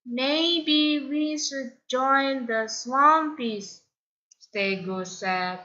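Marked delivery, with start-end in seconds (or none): 0.1-3.8 higher, softer, slow hesitant voice; timid friend. Acted. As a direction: suggest it nervously. Timid Stego suggesting.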